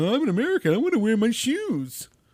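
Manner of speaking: very high, shrill, loud fit-throwing tantrum. Mocking people who refuse a dojo's no-shoes rule: mock tantrum. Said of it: "throwing a fit going".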